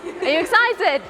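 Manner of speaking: rousing the crowd. Real, not acted. Asks again to rouse quiet audience.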